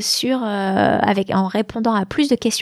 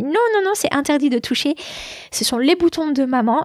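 retold parental "no", slightly raised pitch; mild motherly admonishment; 4 semitones higher than usual. Mother to her little daughter who touches the buttons, mildly admonishing. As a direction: lightly act out a mother forbidding.

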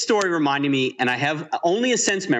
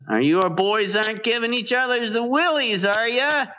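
lightly voiced friendly dad calling in; a hint of a cheery father checking on the boys; mild dad voice at the tent; dad's voice; 6 semitones higher than usual. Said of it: "you hear that voice".

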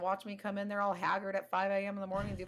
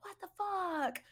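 put-on indignant old man; 10 semitones higher than usual. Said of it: "threw his fucking hands up like".

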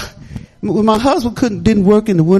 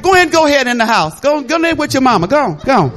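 laughing dad quote; 4 semitones higher, 4 dB louder than usual. Retold or imitated. Retelling dad sending Gwen inside.

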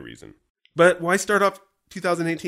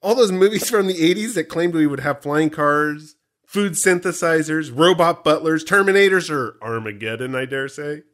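show host read; 3 semitones higher, 6 dB louder than usual. Acted. Continues the scripted opening.

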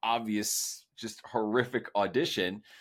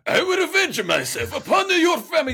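much higher, louder hammed-up samurai vow; the exact caricature he was warned against; offensive Japanese accent; 11 dB louder than usual. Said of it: "I immediately start reading and I go".

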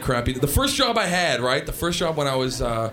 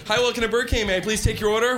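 drive-thru greeting; 4 semitones higher, faster than usual. Retold or imitated. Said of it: "I'd have my little headset".

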